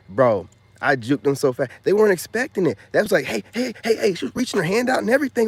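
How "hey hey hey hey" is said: very high, loud mock hollering; mock shout of women from car; calling out. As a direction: holler hey after him. Women calling after him.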